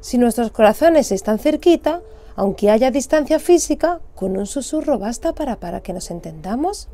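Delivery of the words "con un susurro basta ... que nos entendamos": barely above a whisper, to show it is enough; hushed. Acted. Narrator teaching that whispering suffices.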